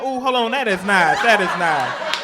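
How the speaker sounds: a touch of lingering, flirty admiration; mildly lustful teammate admiring. Acted. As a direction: savor the compliment too long.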